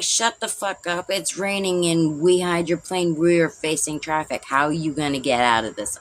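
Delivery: put-on teen yelling back at mom in the wet road. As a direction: throw her words back at her. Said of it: "And I'm like".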